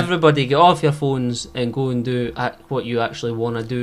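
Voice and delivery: lightly deflated read; disappointed. Pretend. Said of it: "read it with a sense of disappointment".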